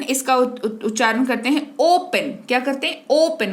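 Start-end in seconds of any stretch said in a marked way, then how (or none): 3.1-3.5 ओपन with a rounded long "o"; ओपन as "OH-pen", lips rounded. Shown as a demonstration. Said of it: "होठों को घुमाया".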